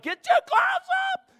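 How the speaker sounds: high, loud yell from the corner; coach yelling. Retold or imitated. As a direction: bark it up at the ring.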